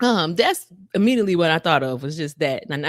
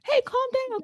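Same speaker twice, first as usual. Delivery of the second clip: high, soft coaxing voice; calm a huge angry boss gently; soothing Moses; 4 dB quieter than usual. Retold or imitated. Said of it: "He said".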